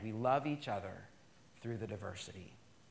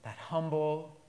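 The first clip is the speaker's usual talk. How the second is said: prayer. Acted. Closing prayer.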